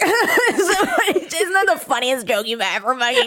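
high, forced-jokey cover-up; imitated panicky laugh through the words; mock laughing-it-off. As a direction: act out laughing off an embarrassment. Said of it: "that moment where you're like".

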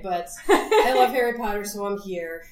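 a bit under the weather, laughing; subdued, feeling sick. Real, not acted. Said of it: "I'm a little under the weather".

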